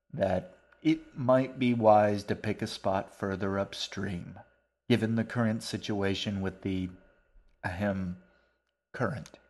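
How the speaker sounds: put-on a mannered old man interrupting kindly; polite old stranger.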